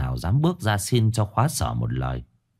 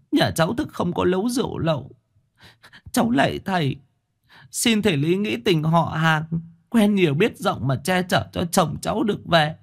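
high, cringing village woman begging; a poor wife begs the chief to save her husband; humbly pleading wife; 11 semitones higher than usual. Acted. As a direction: grovel before the chief, slowing at the end. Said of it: "Thị Khóa khúm núm".

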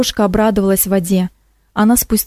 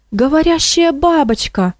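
amazed cry; 7 semitones higher than usual. Acted. Teacher amazed at talking moth.

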